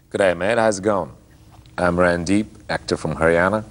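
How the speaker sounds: light Aussie accent, easy greeting; Australian accent. Shown as a demonstration. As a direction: introduce yourself in Aussie speak. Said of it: "do a bit of Aussie speak for us".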